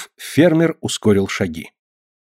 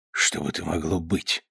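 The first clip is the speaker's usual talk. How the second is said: ordinary delivery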